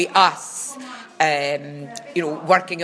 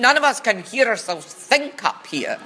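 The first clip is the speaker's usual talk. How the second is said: shouted; 6 semitones higher, 4 dB louder than usual. Retold or imitated. Cleaner calling down to the band in the basement, shouted. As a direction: holler it down the stairs. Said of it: "and shouted to them".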